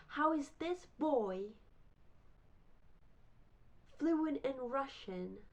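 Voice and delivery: high, slow, drawn-out disbelief; incredulous. Retold or imitated. Rival learner stunned by the boy's fluency, incredulous. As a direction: spell out your mock astonishment slowly.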